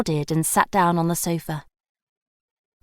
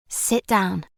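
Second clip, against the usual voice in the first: soft instruction. A narrator's reading. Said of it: "Gemma instructed softly".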